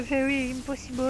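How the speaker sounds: lightly accented, mock-proud English; English with a self-mocking French speaker's accent. Shown as a demonstration. Student showing off their English to viewers, self-mocking English accent. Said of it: "avec mon superbe accent anglais".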